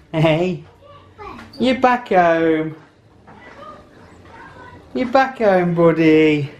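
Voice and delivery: high doting pet voice; greeting the cat. Real, not acted. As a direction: fuss over the cat, high and slow.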